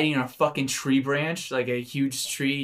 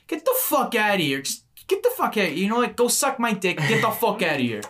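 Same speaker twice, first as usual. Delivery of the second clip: hammed-up British accent, raised voice; 6 semitones higher than usual. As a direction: do a brash British accent telling off. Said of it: "I don't know why I'm using this accent".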